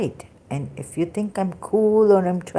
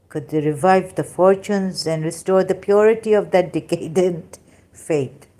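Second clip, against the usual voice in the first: robot voice; 3 semitones higher, 3 dB louder than usual. Acted. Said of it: "if I don't read like a robot".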